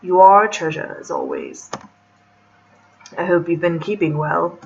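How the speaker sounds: attempted British gentleman voice; male British accent. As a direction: lightly put on a man's British accent. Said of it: "hard to do a male British accent".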